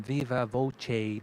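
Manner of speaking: "viva voce" said VEE-vuh VOH-chay, slowly; careful Italian "viva voce". Shown as a demonstration. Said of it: "they say in English".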